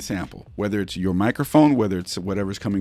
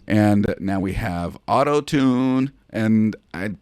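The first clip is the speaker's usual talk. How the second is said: auto-tune voice; 4 dB louder than usual. Shown as a demonstration. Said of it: "warbly in the voice".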